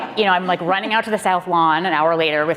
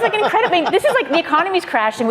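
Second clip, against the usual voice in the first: excited laughing; 12 semitones higher, faster than usual. Real, not acted. Recalling the helicopter ride, laughing excitedly and much higher. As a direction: burst up high with delighted laughter.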